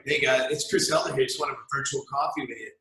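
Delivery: mopey low sales call voice; low-energy caller. Shown as a demonstration. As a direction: show a tired sales call. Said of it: "and I go".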